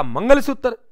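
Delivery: high startled echo of the word; shocked question. Acted. Shopkeeper shocked at request.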